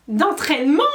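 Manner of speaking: high, loud, indignant elf squeak; scandalised house-elf squeak; furious squeak. A narrator's reading. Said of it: "couina Winky d'un air furieux".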